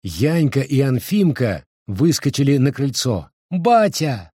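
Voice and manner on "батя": put-on higher child's joyful call; child calling dad. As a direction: call out to father. Дети зовут вернувшегося отца. (радостный детский зов)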